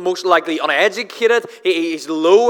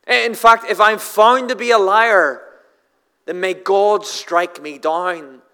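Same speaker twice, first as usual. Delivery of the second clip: stammering, raised, emphatic acted oath; insistent oath; 3 semitones higher, 3 dB louder than usual. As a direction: swear it as a desperate denial, slowing at the end. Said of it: "Peter would have said something like".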